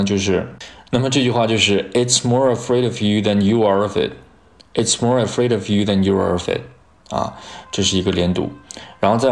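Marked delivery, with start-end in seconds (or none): 1.9-6.6 quick "It's more afraid of you than you are of it" with every word run together; linked pronunciation. Shown as a demonstration. Teacher modelling the whole sentence's linking, linked pronunciation. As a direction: link "more afraid of" and "are of it" without gaps. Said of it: "那这句话连读呢".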